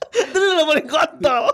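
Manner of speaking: slow words through laughter; laughing. Real, not acted. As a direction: say it while cracking up. Repeat slowed while laughing.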